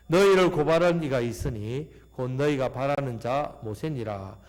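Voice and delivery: slow, solemn Bible reading; scripture reading. Acted. 회중 앞에서 성경을 천천히 엄숙하게 봉독. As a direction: read the verses deliberately to the congregation.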